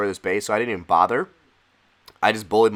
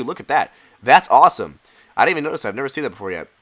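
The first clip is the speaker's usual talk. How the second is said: excited; 3 semitones higher, 6 dB louder, faster than usual. Real, not acted. Spots new Christmas tree.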